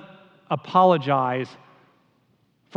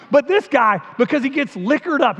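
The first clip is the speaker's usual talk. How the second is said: put-on higher, louder aw-shucks Southern accent; folksy Southern accent, pitched up and loud; aw shucks Southern Peyton Manning; 7 semitones higher, 5 dB louder than usual. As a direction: play the humble Southern quarterback in a Southern accent. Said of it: "sort of talks like this".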